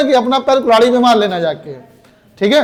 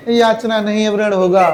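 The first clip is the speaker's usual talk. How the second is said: "याचना नहीं" read through giggles; mock a student reciting the war poem while laughing; wrong way, laughing. Shown as a demonstration. Teacher mocking how students wrongly read it, giggling. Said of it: "पढ़ रही है नहीं".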